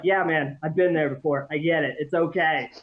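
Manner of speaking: low, easygoing trip-sitter comfort; mock soothing reassurance. Dad soothes daughter through her trip, low reassurance.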